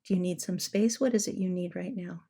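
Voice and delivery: put-on soft, gentle check-in with an upset child; soothing a child. Shown as a demonstration. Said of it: "I'm talking about the attitude of that".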